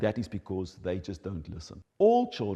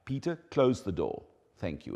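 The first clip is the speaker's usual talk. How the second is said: short direct instruction. Shown as a demonstration. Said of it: "It would be like".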